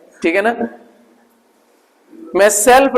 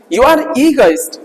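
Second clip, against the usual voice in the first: slow teaching read; 2 semitones higher, much slower than usual. Shown as a demonstration. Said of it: "क्या बोलेंगे?".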